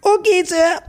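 squeaky submissive yes sir; meek high voice. Retold or imitated. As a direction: cower and agree meekly. Meek reply to the doctor.

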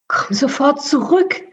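reprimanding rat lady; scolding. Acted. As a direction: call him back sternly. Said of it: "schalt die Rattendame".

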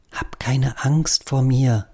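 slow, gentle and calming; hushed reassurance; soft soothing voice. Acted. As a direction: coax a shy bird softly. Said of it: "mit einer leisen, möglichst beruhigenden Stimme".

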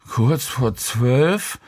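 a slow, belated startled question rising on zwölf; groggy man jolted awake by the time. A narrator's reading. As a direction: let it dawn on him and jolt up at "zwölf". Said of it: "schreckte Helge mit etwas Verzögerung auf".

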